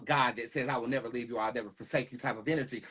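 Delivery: normal talking voice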